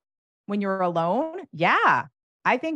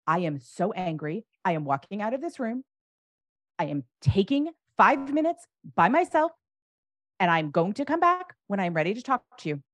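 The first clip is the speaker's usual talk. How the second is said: controlled angry announcement; 3 semitones higher than usual. Shown as a demonstration. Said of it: "when you are shaking with anger and you go".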